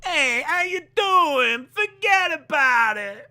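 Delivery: high, slow hammed-up Texas accent; joking Texas accent greeting. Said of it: "That's my Texas accent".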